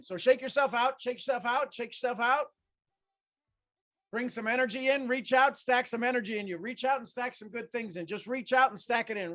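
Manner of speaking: high upbeat coaching calls; hyped exercise leader; energizing coach cue. Acted. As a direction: pump the group up.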